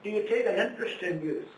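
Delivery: hushed aside. Real, not acted. Preacher asks audience quietly aside.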